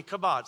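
kabod said slowly and clearly for the crowd to repeat; teaching pronunciation. Shown as a demonstration. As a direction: model kabod for the congregation. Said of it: "say it with me".

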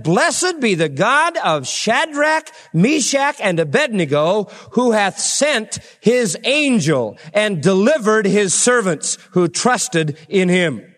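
slow, high, solemn praise; the king blesses God slowly; praising king. Acted.

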